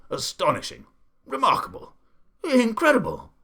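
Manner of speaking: the Duke builds from awed to thrilled; amazed cries. A narrator's reading. The Duke marvelling at the window cleaners, rising to loud amazed cries. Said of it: "cried the Duke".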